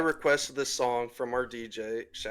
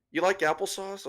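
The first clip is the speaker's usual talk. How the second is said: mock yell; 8 semitones higher than usual. Stranger yells over offering applesauce, mock yell. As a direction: lightly mimic someone calling over. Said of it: "the one yells over to me".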